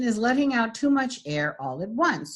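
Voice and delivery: airy, breathy demo. Shown as a demonstration. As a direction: let air leak through the words. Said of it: "So breathy, by definition".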